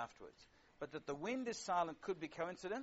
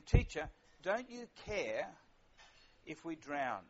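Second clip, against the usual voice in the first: slow, raised cry of fear; panicked plea; 5 dB louder, slower than usual. Acted. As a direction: plead with him over the storm. Disciples' panicked cry in reading.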